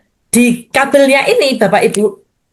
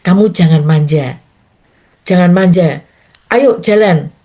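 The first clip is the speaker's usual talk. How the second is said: voice of God; 5 semitones lower than usual. Retold or imitated. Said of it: "Di situ Tuhan bilang".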